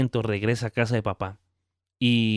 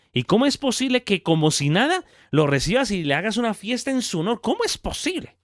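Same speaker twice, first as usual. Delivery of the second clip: put-on indignant older brother; 4 semitones higher than usual. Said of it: "Estoy parafraseando".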